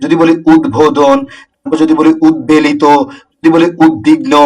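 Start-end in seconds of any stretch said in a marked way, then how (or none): 0.5-1.2 উদ্বোধন said "ud-bodhon", b fully sounded; slow উদ্বোধন with a clear b after the d; unchanged b. Shown as a demonstration. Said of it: "অবিকৃত থাকবে". 2.3-2.8 উদ্বেলিত said "ud-belito", b fully sounded; উদ্বেলিত with a clear b after the d; unchanged b. Shown as a demonstration. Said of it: "এগুলো same রুলসে". 3.9-4.3 উদ্বিগ্ন said "ud-bigno", b fully sounded; উদ্বিগ্ন with a clear b after the d; unchanged b. Shown as a demonstration. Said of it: "এগুলো same রুলসে".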